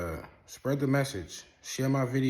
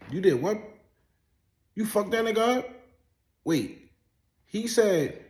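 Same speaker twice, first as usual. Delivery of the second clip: much higher and louder, hyped disbelief; playing along, astonished; mock amazed; 10 semitones higher, 6 dB louder than usual. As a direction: hype up the liar's tall tale. Mock amazed listener to liar's story.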